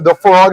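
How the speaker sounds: "the frog" said in place of Laphroaig; mangled whisky name. Shown as a demonstration. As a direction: offer "the frog" as your own botched name. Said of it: "as I so call it".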